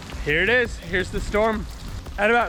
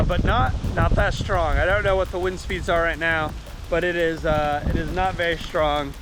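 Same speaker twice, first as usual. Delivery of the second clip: raised voice over a storm; shouting over wind; 3 semitones higher than usual. Real, not acted. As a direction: call out over wind and rain. Filming outside during the hurricane.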